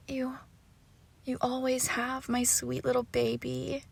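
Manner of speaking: soft, doting murmur; tender cooing. Acted. Owner claiming their sweet baby, tender cooing.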